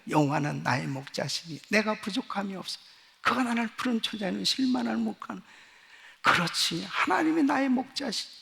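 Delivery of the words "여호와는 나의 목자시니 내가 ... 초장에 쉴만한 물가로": quiet personal confession. Shown as a demonstration. Pastor recalling his hourly confession, soft sincere recital. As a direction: say 여호와는 나의 목자시니 as his own daily whispered creed. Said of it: "매 시간마다 고백을".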